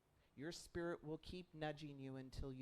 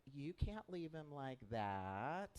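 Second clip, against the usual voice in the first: angel voice; much slower than usual. Retold or imitated. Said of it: "The angel's like".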